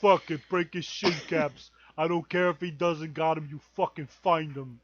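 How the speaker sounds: mob boss anger. Pretend. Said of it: "breaking out into fucking stereotypes".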